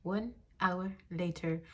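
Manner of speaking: slow, lightly imitated title-card announcer; SpongeBob time-card narrator. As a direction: space out each word like a cartoon time card. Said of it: "those scenes where, like, it says".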